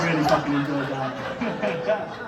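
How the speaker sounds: low, slow seductive voice; sexy voice. Pretend. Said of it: "in your sexy voice".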